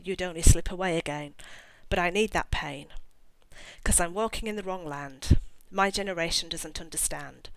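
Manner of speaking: spoken, not sung, like a poem; a lyric recited as verse; reciting song lyrics. Shown as a demonstration. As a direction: read the lyrics out with feeling. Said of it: "but the words go".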